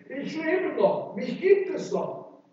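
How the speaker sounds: voicing a dumbfounded man; astonished. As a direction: marvel in disbelief, voice leaping up. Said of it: "Paulus ist geradezu verdutzt".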